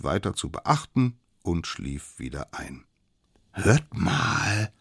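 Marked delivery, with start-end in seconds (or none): 3.5-4.7 drawn, raised call for attention; sudden call. A narrator's reading. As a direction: alert the others to a sound. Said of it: "riefen die plötzlich". (plötzlich aufhorchend gerufen)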